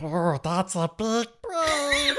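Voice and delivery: high, slow, laughing familiar voice; laughing creature voice. Retold or imitated. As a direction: voice the little creature amazed. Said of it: "and be like".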